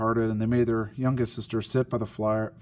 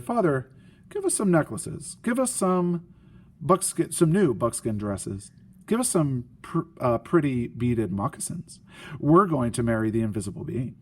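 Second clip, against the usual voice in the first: lightly voiced spoiled sisters begging father; demanding daughters. Greedy sisters demand gifts.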